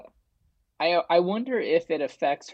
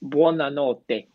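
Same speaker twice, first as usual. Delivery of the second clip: turtle impression; slower than usual. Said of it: "the turtle, like, impression".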